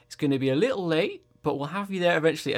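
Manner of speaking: measured, lilting announcer impression; unhurried announcer. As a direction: announce it at a leisurely pace. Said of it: "it's just like that speed".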